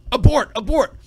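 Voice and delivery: loud, high panicked yelling; hammed-up alarm, yelling at Dwight; urgent mock shout. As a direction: scream the warning down the phone. Jim yelling on the phone to Dwight.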